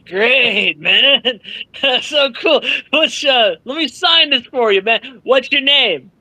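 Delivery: lightly voiced laid-back stoner with a laugh; a hint of a relaxed, mellow fan greeting; half-stoned Kevin Smith. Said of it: "I'm certain is half stoned".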